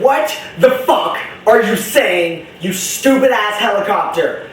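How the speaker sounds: acting out irritation at a cartoon; hammed-up indignant outburst; mock-annoyed. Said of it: "would piss me off".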